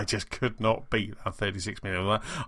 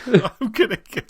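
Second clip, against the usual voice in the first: high, slow, small echo; meek little voice, slowed down; tiny voice; 11 semitones higher, 4 dB louder than usual. Retold or imitated. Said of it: "in a tiny voice was like".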